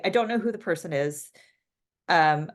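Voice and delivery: ordinary talk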